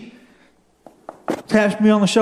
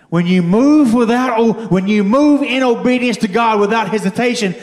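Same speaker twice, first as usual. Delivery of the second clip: emphatic preaching; 4 semitones higher than usual. Real, not acted. Preacher tells congregation about moving in obedience, emphatic preaching. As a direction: drive the lesson home to the congregation. Drives home the sermon's point.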